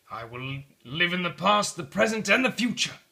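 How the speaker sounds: rising with each phrase; joyful vow. Acted. Scrooge repeating his vow as he leaves bed, elated. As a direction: swear it with growing joy. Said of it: "Scrooge repeated".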